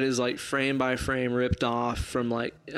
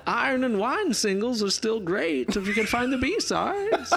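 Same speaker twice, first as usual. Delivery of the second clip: snobby hipster voice; 9 semitones higher than usual. Retold or imitated. Continuing hipster mock.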